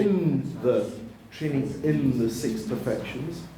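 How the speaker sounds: "in" leaned on and held; stress on IN. Shown as a demonstration. Correcting the writer, you train in something, stress on "in". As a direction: make the word "in" stand out. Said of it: "you train in something".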